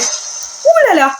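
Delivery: high, slow stretched ouh là là; a long, high, alarmed ouh là là; drawn-out alarm. Real, not acted. Reacts to generator, drawn out.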